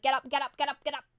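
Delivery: loud, mildly mock self-scolding; yelling at oneself. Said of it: "I'm, like, yelling at myself".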